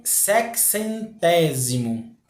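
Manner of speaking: "Sexcentésimo" drawn out slowly, weight on "té"; stressed antepenultimate syllable. Shown as a demonstration. Teacher showing students the tonic syllable, slow stress on "té" in "Sexcentésimo". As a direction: stretch "Sexcentésimo" and lean on the "té". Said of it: "A sílaba tônica aqui é a antepenúltima".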